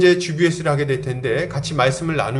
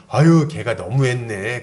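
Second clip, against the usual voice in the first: slow, drawn-out commiseration; imitated sympathetic soothing; 3 semitones lower, slower than usual. Church angel figure comforting a scolded youth, mock-sympathetic. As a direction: play the indulgent listener taking their side. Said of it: "그렇게 받아주는 거예요".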